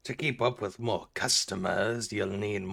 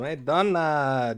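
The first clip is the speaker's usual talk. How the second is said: calling out; 2 semitones higher, 5 dB louder, slower than usual. Real, not acted. Calling out to a neighbour.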